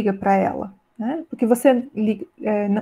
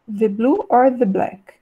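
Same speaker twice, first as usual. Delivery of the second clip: corrected version. Shown as a demonstration. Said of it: "Faltou um the antes de black aqui".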